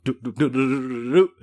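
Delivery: quick mock fight sound effect; rapid doo-doo noises. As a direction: rattle off a string of little doos. Imitates her dusting the girls.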